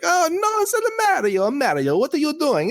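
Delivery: very high, squeaky cartoon Luigi playing with the kids. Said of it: "Mario and Luigi".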